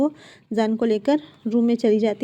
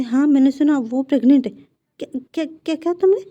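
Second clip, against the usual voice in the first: louder, rising disbelief; husband realises his partner is pregnant, louder; dawning disbelief; 4 semitones higher, 5 dB louder than usual. Acted. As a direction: it finally sinks in, louder and higher. Husband slowly grasps the news.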